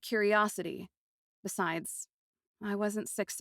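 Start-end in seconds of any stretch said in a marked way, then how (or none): none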